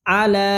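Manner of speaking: আলা with the লা held; one-alif stretch. Shown as a demonstration. Teacher explaining the lam, আলা with stretched ending. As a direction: draw out the final vowel of আলা evenly. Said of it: "লাম টান হবে এক আলিফ".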